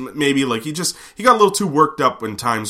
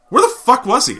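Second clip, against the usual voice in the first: exasperated; 14 semitones higher, 5 dB louder than usual. Retold or imitated. Exasperated rhetorical outburst.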